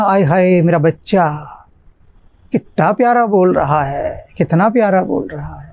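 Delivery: lightly acted fond cooing over a child; doting parent. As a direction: mildly gush like a besotted parent. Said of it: "उतना अधिक बच्चे पर प्यार आता है". (हल्के अभिनय में बच्चे पर लाड़ जताते हुए)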